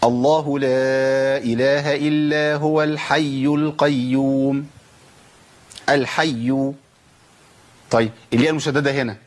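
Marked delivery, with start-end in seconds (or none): 0.0-4.7 slow, sustained, level recitation; Quran recitation. Shown as a demonstration. Teacher reciting a verse as example, slow Quran recitation. 5.9-6.7 الحي said slowly with a final u, al-hayyu; ending in damma. Shown as a demonstration. Teacher showing the voweled ending, الحي as slow al-hayyu. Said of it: "بضم".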